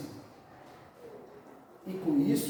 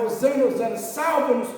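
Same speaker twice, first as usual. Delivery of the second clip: raised, higher mock crowd chant; retold cries for rescue, pitched up and loud; imitated crowd shouting; 5 semitones higher, 4 dB louder than usual. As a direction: call out like a clamouring crowd. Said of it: "quando aquele povo gritava".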